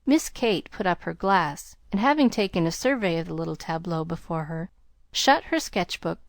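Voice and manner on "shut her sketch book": usual speaking voice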